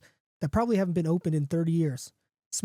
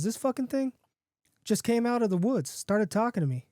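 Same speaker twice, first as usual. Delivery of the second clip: higher-pitched small-town barfly; John the bar regular; 5 semitones higher than usual. Acted. John telling his friend about the stray, higher and incredulous.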